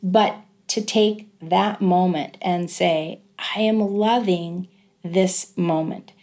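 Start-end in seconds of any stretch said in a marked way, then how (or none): 3.6-6.1 slow, deliberate, heartfelt savouring. Retold or imitated. Mother taking that moment despite the pain, savouring. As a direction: say it slowly, meaning every word.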